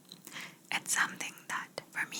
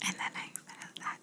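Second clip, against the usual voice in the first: muffled whisper as if under glass; fishbowl effect; 8 dB quieter than usual. Shown as a demonstration. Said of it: "Did it sound like I was covering you in a fishbowl?".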